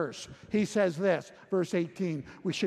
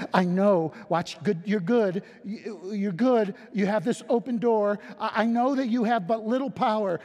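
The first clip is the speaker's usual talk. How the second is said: raised, earnest voice of Jesus praising a small church; Jesus reassuring a weak church, voice raised and earnest; 3 semitones higher than usual. Acted. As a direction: speak as Jesus, lifting the voice with praise. Voicing Jesus to Philadelphia.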